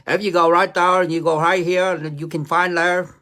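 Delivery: run-on directions in a mock Carolina accent; lightly mocked Carolina accent; imitated Carolina accent. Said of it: "South Carolina and North Carolina".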